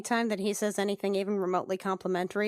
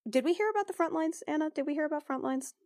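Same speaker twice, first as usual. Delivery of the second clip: surprised; 7 semitones higher, faster than usual. Real, not acted. Asks fellow player, surprised.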